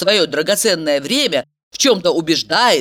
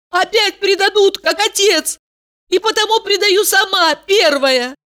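high, urgent, tearful-toned plea; girl begs her boyfriend for forgiveness, high and desperate; pleading young woman; 12 semitones higher than usual. A narrator's reading. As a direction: beg him to forgive her. Valeria pleading.

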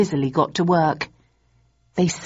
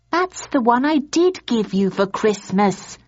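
higher, firm wife's scold; 6 semitones higher than usual. A narrator's reading. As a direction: tell him off, lightly exasperated. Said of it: "she scolded".

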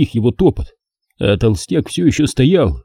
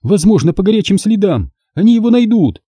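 higher, brisk; commanding; 10 semitones higher than usual. Acted. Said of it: "распорядилась она".

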